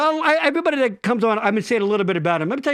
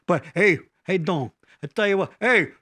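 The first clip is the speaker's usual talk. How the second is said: hammed-up Minnesotan fox warning; bad Minnesota accent; 2 semitones higher than usual. Warning the fox off the lake, bad Minnesota accent. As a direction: ham up a clumsy Minnesota accent. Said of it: "people just shouldn't do accents".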